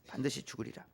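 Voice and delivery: 반드시 죽으리라 breathed as an unvoiced whisper; whispered warning. Shown as a demonstration. Pastor whispering God's warning to the congregation. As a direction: whisper 반드시 like a secret threat. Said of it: "이렇게 말씀하세요".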